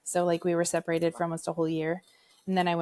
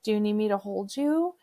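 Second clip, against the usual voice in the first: gentle offer; 3 semitones higher than usual. Retold or imitated. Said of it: "I was like".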